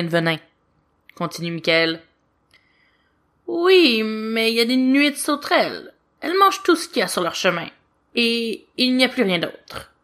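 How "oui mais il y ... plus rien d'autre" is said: put-on higher, quick eager boyish voice; a young angel pressing his point, fast; lightly voiced little angel objecting; child angel Lucifer. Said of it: "objecte Lucifer".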